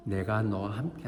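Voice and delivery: soft, low voiced promise; gentle quoted comfort; reassuring. God reassures fearful Gideon.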